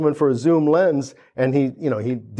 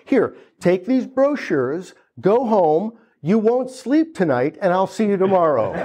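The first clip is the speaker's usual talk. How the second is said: salesman; 4 semitones higher than usual. Retold or imitated. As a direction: send him off with a sure smile. Salesman sends him home.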